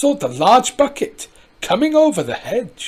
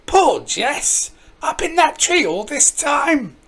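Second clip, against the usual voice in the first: a hint of a cross old woman, high; cross old granny; 4 semitones higher than usual. Granny Dryden scolding the neighbours, a touch cross. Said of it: "Granny Dryden sounded cross".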